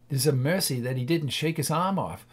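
ordinary delivery, nothing marked

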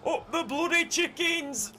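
high, loud terrace cry; celebratory yell. Real, not acted. Gamer celebrating his team's win, loud yell. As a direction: roar it like a fan.

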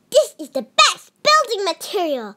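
a bright little pig sure of his find; second little pig. A narrator's reading. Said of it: "said the second little pig".

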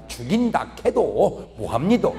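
slow, stubborn Gyeongsang refusal; Gyeongsang man refusing. Retold or imitated. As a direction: dig in your heels in dialect. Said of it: "경상도 남자". (경상도 사투리로 느리게 고집 부리듯)

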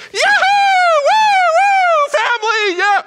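very high, loud whooping cheers; cheering. Retold or imitated. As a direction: whoop like the whole family is celebrating. Retelling family cheering.

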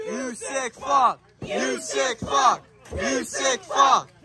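repeated shouted chant; swearing tirade. Real, not acted. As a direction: yell it over and over at the ring. Crowd chant at violent spot.

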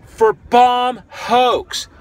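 slowed-down furious shout; indignant shout. Real, not acted. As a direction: spit out each word in disbelief. Ranting at police charge.

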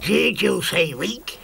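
slow, strange voiced ant lion threat; menacing hiss. The ant lion challenges Moomin Troll, slow and menacing. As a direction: bristle at the insult, slowly. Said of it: "hissed the ant lion".

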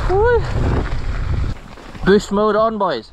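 high loud hype shout; excited whoop. Real, not acted. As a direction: whoop it up, pumped.

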